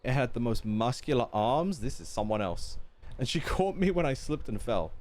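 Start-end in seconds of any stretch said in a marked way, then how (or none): 0.0-1.8 lively storytelling with swooping pitch; animated villager's anecdote, lightly acted; expressive story reading. Reads a villager's tipsy tale aloud. 3.2-4.9 lively storytelling with swooping pitch; animated villager's anecdote, lightly acted; expressive story reading. Reads a villager's tipsy tale aloud.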